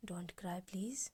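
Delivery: very slow whispered comfort, close to her ear; soft comforting whisper. Retold or imitated. Shefali soothing a tearful Miss Kapoor, slow tender whisper. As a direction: breathe it softly, like calming someone in tears.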